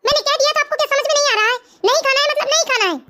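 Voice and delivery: put-on irritated child refusing to eat; angry. Son refusing his parents' call to dinner, angry. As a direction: dig in with mild, insistent anger. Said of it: "आप क्यों गुस्सा कर रहे हो".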